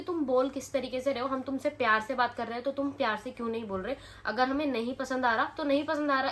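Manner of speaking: angry retort. Retold or imitated. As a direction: tell off the rude shopkeepers, getting angrier. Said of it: "वो दोनों ऐसे बोलने लगे". (गुस्से में ऊँची आवाज़ में जवाब)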